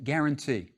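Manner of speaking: "guarantee" said with a hard G, like the g in go; "guarantee" opening on a firm hard g. Shown as a demonstration. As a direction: start "guarantee" with a clear, hard g. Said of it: "It's a hard G sound".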